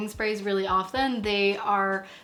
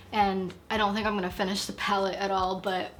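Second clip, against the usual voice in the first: vocal fry endings. Real, not acted. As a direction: let the phrase endings crackle into fry. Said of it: "Sorry about the fry voice".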